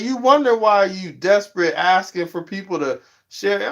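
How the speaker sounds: high pleading call-out; exasperated scolding. Retold or imitated. Vlogger telling scowling streamers to smile, high and exasperated. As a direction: beg them to lighten up. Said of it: "I'm like".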